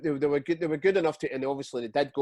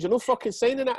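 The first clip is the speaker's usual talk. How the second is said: raised, higher angry retort; angry swearing manager; 9 semitones higher, 3 dB louder than usual. Retold or imitated. Manager refusing the player's demand, angry. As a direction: snap it back at the player, pitched up. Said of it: "he actually swore".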